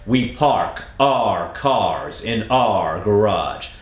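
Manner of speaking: very slow, crisp R on park, cars, our; slow drill. Shown as a demonstration. Coach breaking down the first part, very slow. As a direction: draw out every R slowly. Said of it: "The first part of the sentence there".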